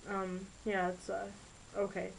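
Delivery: soft, halting words with a lump in the throat; swallowing tears, forcing out okay; quiet, hesitant, near tears; holding back tears. Acted. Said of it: "Rachel was fighting back tears".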